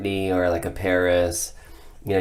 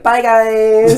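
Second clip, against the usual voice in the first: much higher, louder, chirpy goodbye; sing-song it up high and bright; sweet high voice; 14 semitones higher, 8 dB louder than usual. Retold or imitated. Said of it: "I get off the mic and I'm like".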